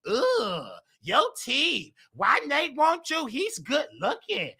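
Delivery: slow, taunting mimic of gossiping fans; mocking the haters. Fans in the bar quizzing him about his husband. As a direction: sneer it like jealous onlookers. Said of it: "when I come up".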